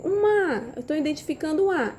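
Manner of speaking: put-on child's answer. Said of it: "Então, ele vai dizer".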